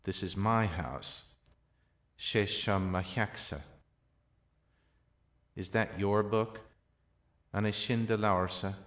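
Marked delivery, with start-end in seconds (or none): 0.0-1.2 slow, with "my" picked out; emphatic "my"; stress on my. Shown as a demonstration. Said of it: "emphatic particles can also be added". 5.5-6.6 "your" stands out in the question; emphatic "your"; stress on your. Shown as a demonstration. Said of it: "emphatic particles can also be added".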